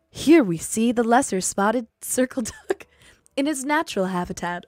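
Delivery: hushed British nature documentary voice; nature documentary narrator. Retold or imitated. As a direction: narrate a duck like a wildlife film. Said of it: "It's like".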